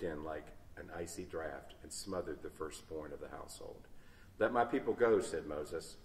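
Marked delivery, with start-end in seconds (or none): 4.4-5.2 raised voice. A narrator's reading. Moses raising his voice over weeping mothers, loud. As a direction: call it out loud over the noise. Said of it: "He had to raise his voice".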